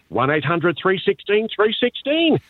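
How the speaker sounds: number read high in broad country twang; Aussie farmer voice. Retold or imitated. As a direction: outback farmer reading the phone number. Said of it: "your typical Aussie voice".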